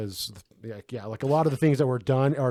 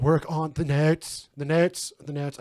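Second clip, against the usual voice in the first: Nicolas Cage; 3 semitones higher, slower than usual. Retold or imitated. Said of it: "I can only do old Cage now".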